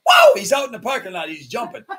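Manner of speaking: ordinary talk, nothing marked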